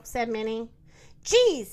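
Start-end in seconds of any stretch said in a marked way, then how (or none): 1.2-1.7 raised, louder rooster line; high, loud storybook rooster; exasperated rooster. A narrator's reading. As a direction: play an exasperated rooster, pitched up. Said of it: "said the rooster".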